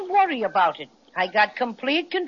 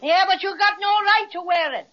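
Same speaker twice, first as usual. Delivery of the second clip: arguing; 5 semitones higher than usual. Acted. Bear argues with policeman from boat.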